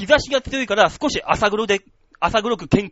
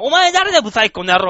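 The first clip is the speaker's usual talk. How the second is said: rude complaint; 3 semitones higher, 5 dB louder than usual. Retold or imitated. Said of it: "っていう".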